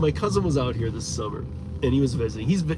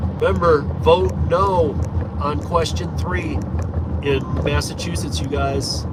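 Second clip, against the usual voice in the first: urgent appeal; 4 semitones higher, 5 dB louder than usual. Real, not acted. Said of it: "urging viewers to vote".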